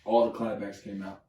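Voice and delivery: ordinary delivery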